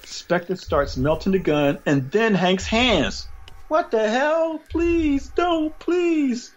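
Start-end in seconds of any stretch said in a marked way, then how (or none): 3.7-6.5 high, frantic pleading; panicked begging. Acted. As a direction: beg for your life, voice up high. Hank begging as he melts.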